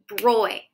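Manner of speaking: broy said slowly as one sound; sounded-out syllable. Shown as a demonstration. Teacher sounding out broy for kiddos. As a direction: stretch out broy for the kids. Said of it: "First syllable".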